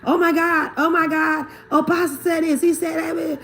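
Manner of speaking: a churchgoer fawning over her pastor, hammed-up gushing; gushing fan. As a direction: rave breathlessly like an adoring fan of the pastor. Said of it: "when you start fanning over a pastor".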